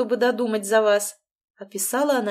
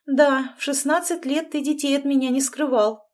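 offended; 6 semitones higher, 4 dB louder than usual. A narrator's reading. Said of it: "обиделась мама".

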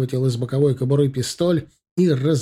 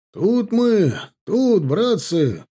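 a high, drawn-out call to distant comrades; shouting; 8 semitones higher, 3 dB louder, much slower than usual. A narrator's reading. A hunter calling the approaching soldiers over, hands cupped, shouting. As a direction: call across the snow to be found. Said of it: "крикнул он".

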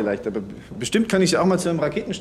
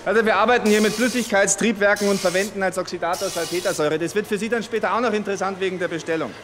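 raised voice; 6 semitones higher than usual. Acted. Speaking over factory noise.

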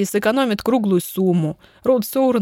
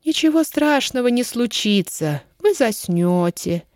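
cooing; 3 semitones higher than usual. Acted. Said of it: "ворковал Эллен".

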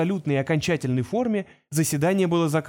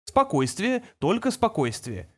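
calming; 4 semitones higher, slower than usual. A narrator's reading. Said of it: "проговорил Форд".

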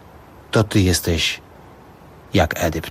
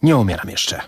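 put-on a frail old man finding a firm voice; strong voice; 4 semitones higher than usual. A narrator's reading. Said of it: "mówi niespodziewanie mocnym głosem".

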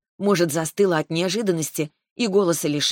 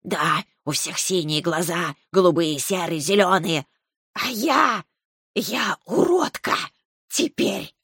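tearful snake; slower than usual. Acted. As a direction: whimper it out like a hurt snake. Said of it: "Она что, всхлипнула?".

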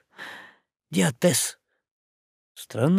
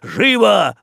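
bellowed order, much louder and higher; shouted order; 6 semitones higher, 5 dB louder than usual. A narrator's reading. Boatswain barks at sailors to hurry. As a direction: yell it at the crew. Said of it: "орал он".

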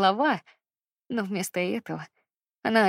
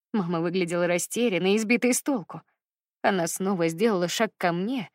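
usual speaking voice

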